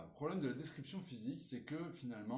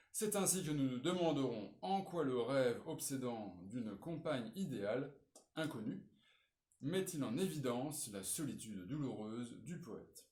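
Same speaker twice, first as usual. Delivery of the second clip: measured read-out of a model essay; reading aloud; 4 dB louder than usual. Acted. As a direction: read the introduction out clearly for students. Reads model introduction aloud. (lecture à voix haute)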